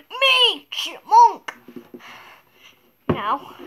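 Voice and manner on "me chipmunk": high, louder playful shout. Shown as a demonstration. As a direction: shout it out with a laugh. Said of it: "you have to shout".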